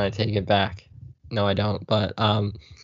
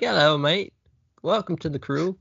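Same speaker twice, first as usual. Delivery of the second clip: higher-pitched, shaky attempt at British that drifts Australian; bad British accent; 6 semitones higher than usual. Nice guy greeting a new castmate, in a bad British accent. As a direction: put on an amateur British accent. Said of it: "how to do a British accent".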